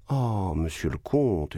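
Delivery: «monsieur le comte» lent, en reproche taquin; traîner «comte» avec une moue coquette. Acted. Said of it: "vous auriez dû avoir la galanterie". (la baronne taquine le comte, lente et coquette)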